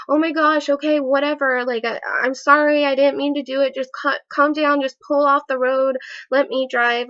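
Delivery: put-on panicked girlfriend begging him to pull over; retold frantic pleading. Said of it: "I was super scared".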